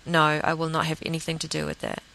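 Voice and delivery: calm, level refusal with no emotion; emotionless, firm no; matter-of-fact. Shown as a demonstration. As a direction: say it plainly and firmly, no heat. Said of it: "And that's how I said it".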